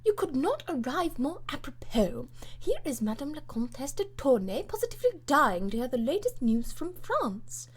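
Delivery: a lightly voiced bold old lady; bluff lady. Lady Portarles welcomes the Secretary of State, lightly hearty.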